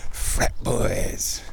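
amused scorn. Real, not acted. Laughing about frat friends.

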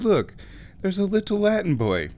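high, sing-song drag queen gushing; Patrick Swayze as a drag queen. Retold or imitated. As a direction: coo over it like a fussing diva. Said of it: "Swayze's looking at ... and goes".

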